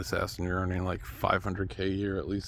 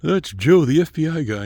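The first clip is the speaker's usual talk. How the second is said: calling out loud; 7 semitones higher, 10 dB louder than usual. Pretend. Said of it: "call them out and be like".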